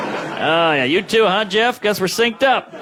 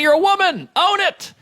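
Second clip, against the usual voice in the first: higher, pumped-up urging; rally them, much higher pitched; emphatic rally; 12 semitones higher than usual. Real, not acted. Urging women to be confident.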